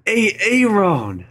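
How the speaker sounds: high, stern teacher calling roll; substitute teacher. Retold or imitated. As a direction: mangle the name like a stern sub. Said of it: "that video with Key and Peele".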